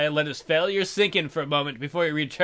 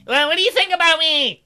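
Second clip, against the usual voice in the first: high, loud bear voice pleading; hopeful bear; 12 semitones higher, 8 dB louder than usual. Acted. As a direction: beg the girl as a lovesick bear. Bear Josiah asks Emily.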